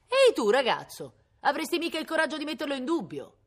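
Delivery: put-on loud, high hail to the boy; mock challenge. Villagers dare the boy to doubt the brigand, challenging. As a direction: call him out in a high, goading voice.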